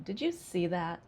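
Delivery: "Did you see that" falling away after "you"; a yes-no question with no rise on "that"; sarcastic question, pitch dropping to "that"; falling intonation. Shown as a demonstration. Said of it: "Falling intonation".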